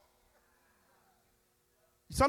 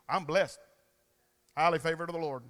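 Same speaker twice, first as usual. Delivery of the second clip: lower, softer mock churchy cliché; mocking pious Christian; 7 semitones lower, 3 dB quieter, faster than usual. Preacher mocks a shallow churchgoer, pious and hollow. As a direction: sneer at a pious catchphrase. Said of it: "This is not some Christian".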